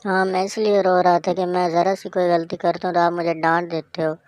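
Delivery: put-on child protesting to his mother, loud and upset; upset outburst. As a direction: blurt out the hurt at being scolded. Child complains about being scolded.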